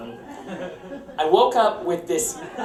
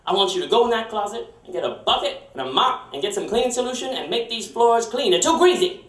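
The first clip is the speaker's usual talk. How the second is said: boss voice; 6 semitones higher than usual. Retold or imitated.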